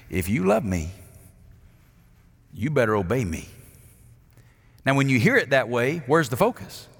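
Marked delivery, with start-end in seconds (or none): 0.1-3.5 stern demand. Retold or imitated. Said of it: "Here's how I heard it".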